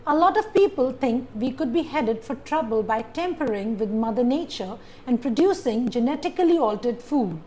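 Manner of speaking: reading a paragraph aloud with certain syllables stressed. Shown as a demonstration. Teacher shows students how to read aloud with word stress. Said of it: "have stress on certain syllables".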